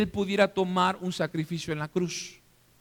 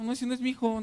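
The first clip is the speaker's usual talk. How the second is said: a touch of indignant refusal, mildly raised; lightly acted no, not my son; rejecting father; 5 semitones higher, faster than usual. Father in the skit refusing the wrong child, mildly indignant.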